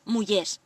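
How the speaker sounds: "mullés" with the R before the S left out; silent final R. Shown as a demonstration. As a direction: say "mullés" with no R, ending in -és. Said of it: "no he pronunciado a R zaguera".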